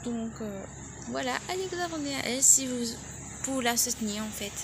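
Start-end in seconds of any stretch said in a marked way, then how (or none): 1.1-4.5 stumbling over the words; hungry, tripping on words; stuttering. Real, not acted. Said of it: "Je bégaye autant".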